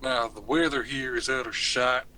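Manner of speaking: put-on Southern US accent; cowboy small talk in a Southern accent; McCree. Shown as a demonstration. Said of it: "I have to do McCree".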